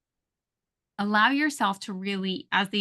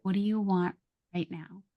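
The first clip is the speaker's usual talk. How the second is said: softer, slowed, gentle version; 4 dB quieter than usual. Shown as a demonstration. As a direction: ask it calmly and slowly. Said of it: "Slow it down".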